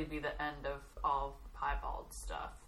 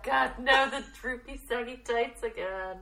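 retold dismay; 7 semitones higher, slower than usual. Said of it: "And I was like".

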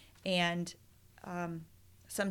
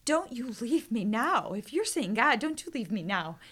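alarmed pleading; 5 dB louder than usual. Retold or imitated. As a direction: beg him not to go, rising into alarm. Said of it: "I was just alarmed".

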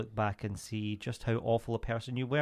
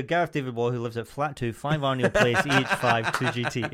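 laughing while reading; 6 dB louder than usual. Real, not acted. Reading post aloud, laughing.

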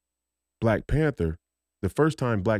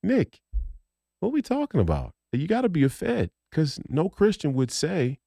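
higher, disbelieving retort; incredulous rant; 6 semitones higher than usual. Retold or imitated. Telling Nick off in a high incredulous voice. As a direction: scoff at him in disbelief. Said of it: "I'm just like".

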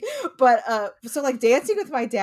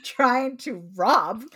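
a hint of slow, pompous speechifying; mock old-timey indignation. Defending the bagpiper in jest, mock old-timey indignation. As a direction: draw it out in mock outrage.

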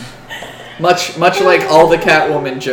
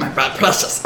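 Gollum; 5 semitones lower than usual. Acted. Game master finding the goblin again, Gollum voice. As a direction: apologize as the ring-obsessed creature. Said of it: "Do, do Gollum".

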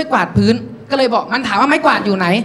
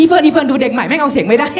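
high laugh, then gleeful shout to friend; jeering; 3 semitones higher than usual. Acted. Girl calling Fern to see new boy fail, jeering. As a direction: cackle and call a friend over to mock.

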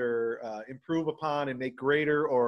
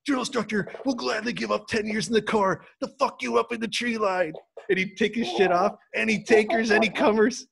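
drill instructor yell; 5 semitones higher than usual. Retold or imitated. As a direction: bark it like a tough Marine. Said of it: "be like".

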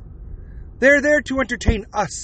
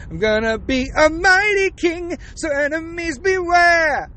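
mighty king boast; 7 semitones higher than usual. Retold or imitated. Prince William, imagined, booming a mighty king's threat to enemies. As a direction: bellow it like a warrior king declaring war. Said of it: "Prince William's like".

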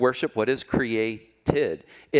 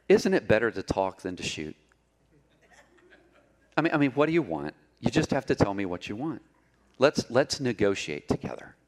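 soft soothing bear; 3 semitones lower than usual. Acted. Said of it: "the bear spoke in a very soft and soothing voice".

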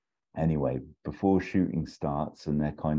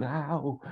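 high yelp; 11 semitones higher than usual. Retold or imitated. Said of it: "he just goes".

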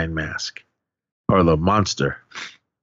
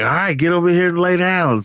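higher-pitched mock command; retold bossy order; 9 semitones higher than usual. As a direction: imitate her ordering a customer about. Fortune teller orders customer, retold.

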